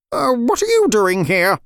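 high, put-on chicken voice; Red Ribbon. A narrator's reading. Chicken asks the girls in its home, character voice. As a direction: ask in a startled hen's voice. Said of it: "Red Ribbon asked".

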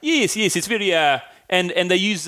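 showing off a South African accent. Shown as a demonstration. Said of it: "That's really good".

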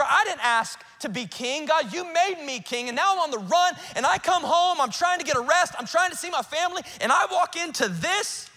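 high-pitched, indignant complaint to God; exasperated prayer. Acted. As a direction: pour out your exasperation in rising pitch. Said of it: "just yelling and chucking stuff up".

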